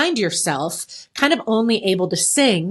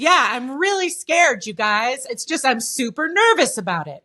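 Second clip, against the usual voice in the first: firm, sure, bold delivery with no hesitation; 2 semitones higher than usual. Explaining vocal dynamics, speaker shows a delivery that doesn't fit the words: loud, unhesitant delivery. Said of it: "But if I just said it all like this".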